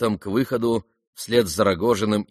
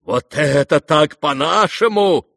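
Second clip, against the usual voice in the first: loud, slow, triumphant exclamation; ecstatic cry; 6 semitones higher, 6 dB louder, slower than usual. Acted. Rogozhin to the crowd, crying out in ecstasy. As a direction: crow it out beside yourself. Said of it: "вскрикивал он, не помня себя".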